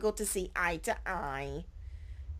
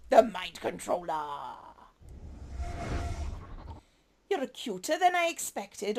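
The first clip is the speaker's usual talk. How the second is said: lightly voiced flirty villain. Flirty agent teasing the newcomer, lightly raised voice. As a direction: purr the compliments with a playful tease. Flirty Mind Controller character voice.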